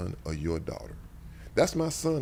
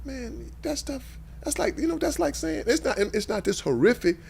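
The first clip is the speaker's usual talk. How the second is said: heated. Real, not acted. Passionate argument about letting go.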